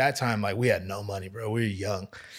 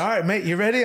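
tattooist impression; 8 semitones higher, faster than usual. Voicing the old tattooist.

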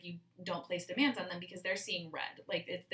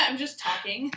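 breathless and laughing; winded, half laughing; out of breath; 6 semitones higher, 10 dB louder than usual. Real, not acted. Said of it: "my lungs don't work".

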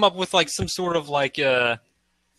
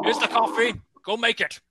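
coffee maker; 6 semitones higher, 4 dB quieter than usual. Acted. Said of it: "This dude's the new coffee maker".

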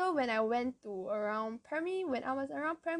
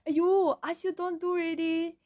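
exasperated cry; 7 semitones higher, 4 dB louder than usual. Retold or imitated. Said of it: "I was like".

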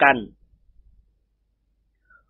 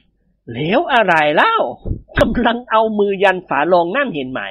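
stern scolding; 3 semitones higher, slower than usual. Acted. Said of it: "พูดเสียงดุดุ".

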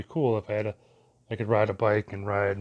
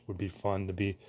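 burping; 6 dB quieter than usual. Real, not acted. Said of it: "excuse me, I'm burping".

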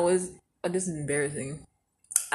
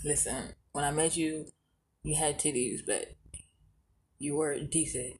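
mock blunt husband; 3 semitones lower, 9 dB quieter than usual. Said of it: "you was like".

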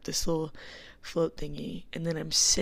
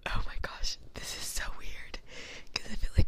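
whispering. Real, not acted. Worried people outside will hear.

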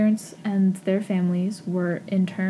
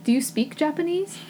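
high prying question; mock nosy asker; 8 semitones higher than usual. Mocking the strangers who quiz her, high and prying. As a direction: ask it brightly, like a curious stranger. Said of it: "the next three questions always follow".

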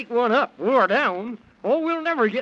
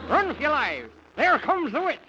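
escaping the witch, frightened; panic; 3 semitones higher than usual. Acted. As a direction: cry out in fright.

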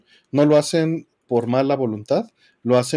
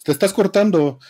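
call dropping out; 5 semitones higher than usual. Pretend. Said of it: "Así como ahorita dicen".

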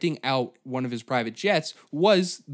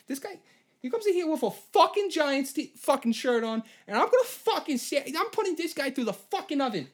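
angry Boston pizza guy; 12 semitones higher than usual. Retold or imitated. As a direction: bellow at the customer like a hothead pizzeria owner. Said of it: "every pizzeria in Boston".

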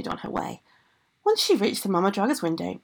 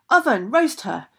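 louder storybook order; commanding shout; 5 dB louder than usual. Acted. Ogress orders oven to roast girl, commanding shout. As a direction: bark a mock-villain command.

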